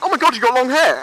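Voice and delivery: gushing disbelief, acted out; mock surprise. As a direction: imitate someone amazed by a discovery. Imitating new colleagues' surprise.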